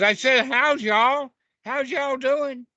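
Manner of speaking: a mock-impatient rabbit calling out his hello a second time; insistent repeated greeting.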